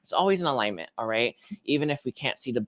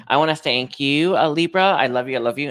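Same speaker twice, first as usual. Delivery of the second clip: bright, louder burst of thanks; gushing thanks; 2 semitones higher, 6 dB louder than usual. Real, not acted. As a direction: beam affection out to the viewers. Signing off to Libra viewers.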